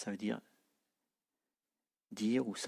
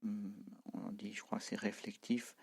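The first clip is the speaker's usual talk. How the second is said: whispered aside; 7 dB quieter than usual. Real, not acted. Teacher's hushed aside.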